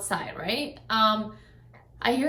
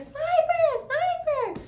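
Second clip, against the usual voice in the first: calling the dog; much slower than usual. Retold or imitated. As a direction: shout the name out far to find him. Calling dog behind the fence.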